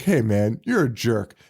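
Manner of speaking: P=A; Dan Haggerty again. Retold or imitated. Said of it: "when Dan Haggerty's like".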